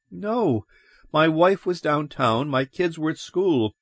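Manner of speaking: high-pitched, mildly worked-up reply; agitated answer. Acted. Man accounting for his family to police, agitated. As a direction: answer in a high, anxious-to-explain voice.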